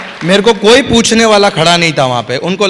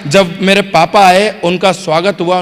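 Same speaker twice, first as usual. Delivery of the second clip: ordinary delivery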